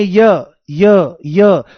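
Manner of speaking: य with a tiny ई sound before it; य pronounced as ई-य, the ई barely there; demo of य. Shown as a demonstration. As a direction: say य slowly, listening for a faint ई glide at the start. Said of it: "चाहे बोल के देख लो".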